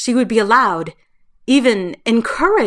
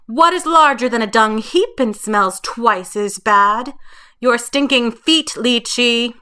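taunting shout; 4 semitones higher, 4 dB louder than usual. Acted. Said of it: "Fei shouted after her".

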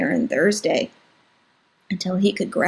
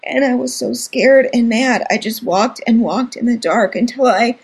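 crying hard; 5 semitones higher than usual. Acted. Scared little brother recounting the ordeal, crying hard. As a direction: sob it out to your sister. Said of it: "He was crying so hard".

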